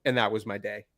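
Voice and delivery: lightly spiced-up Boston accent, measured pace; own Boston-style accent. Shown as a demonstration. Host performing the viewer's request in his own Boston-style accent. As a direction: lay on a little extra Boston accent. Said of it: "a whole lot of my accent".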